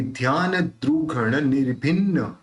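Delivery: weight on the double n of निर्भिन्न; वजन करके. Shown as a demonstration. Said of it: "वजन करके करेंगे". (निर्भिन्न के दोहरे न पर वजन)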